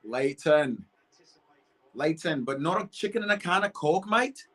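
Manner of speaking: high-pitched mock Scouse; Liverpool accent. Streamer joking about chicken and Coke, mock Liverpool accent. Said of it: "that's my last Liverpool accent of the day".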